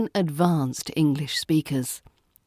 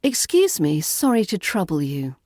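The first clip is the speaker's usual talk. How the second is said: gentle, apologetic RP opener; polite British opener. Shown as a demonstration. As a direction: politely interrupt a baggage handler. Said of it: "Use a classic British opener".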